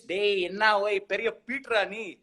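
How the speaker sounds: mock a big shot in Tamil; Bangalore Tamil slang. Guest teases a show-off in Bangalore Tamil. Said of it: "this Bangalore Tamil slang".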